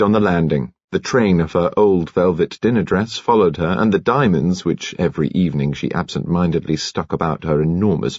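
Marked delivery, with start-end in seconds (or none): none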